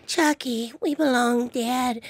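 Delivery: a hint of the Chucky bride, slowly; Tiffany voice. Shown as a demonstration. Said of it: "when I play Tiffany, I talk like this".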